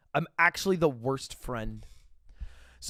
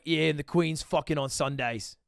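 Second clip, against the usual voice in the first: Retold or imitated. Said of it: "Weird accent today, w-, Connor".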